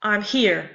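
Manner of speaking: "I'm here" with unstressed "I'm" and firm, falling "here"; stress on HERE. Shown as a demonstration. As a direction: land the beat on "here" in "I'm here". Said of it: "is stressed".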